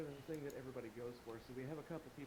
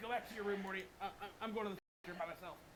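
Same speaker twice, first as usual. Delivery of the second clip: cartoon scientist voice, pitched much higher; 6 semitones higher than usual. Two speakers act out a cartoon scene, one sending the other away: Rick impression. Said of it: "that's us doing Rick and Morty".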